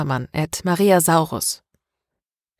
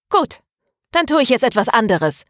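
high, stubborn declaration; defiant; 6 semitones higher than usual. A narrator's reading. Maria gives up on her friends and announces a change, defiantly. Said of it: "sagte trotzig".

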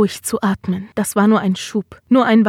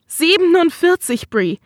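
much higher, desperate repeat; anguished outburst; 8 semitones higher than usual. Acted. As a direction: throw the number out in despair. Husband repeats, more upset. (verzweifelt, viel höher)

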